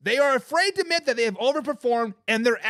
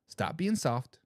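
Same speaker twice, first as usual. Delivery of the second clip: ordinary talk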